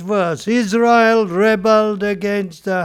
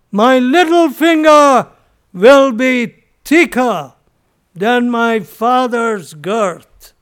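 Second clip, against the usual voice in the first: raised, emphatic mock boast, slowing at the end; arrogant boast; 2 semitones higher, 4 dB louder than usual. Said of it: "arrogance, pride".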